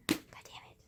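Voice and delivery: muttered, barely voiced swearing; frustrated whisper. Real, not acted. Cursing her lost essay to camera, in a frustrated whisper. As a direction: curse under your breath.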